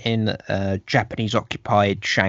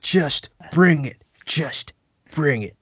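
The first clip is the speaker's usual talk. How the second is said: mock taunt; 5 semitones higher than usual. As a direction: toss out a lazy cocky challenge.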